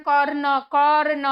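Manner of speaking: কর্ণ said out clearly for students; pronunciation demo. Shown as a demonstration. Teacher shows students how karna is pronounced, demonstrating. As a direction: say কর্ণ twice, sounding out the র before the ন. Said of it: "আমরা যখন উচ্চারণ করছি দেখো".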